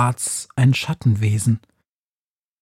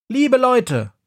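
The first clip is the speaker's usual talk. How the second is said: much higher, announcing to a crowd; calling out; 11 semitones higher than usual. A narrator's reading. Befana on the counter calls to the crowd, announcing. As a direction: call out to the shoppers. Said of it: "ruft sie".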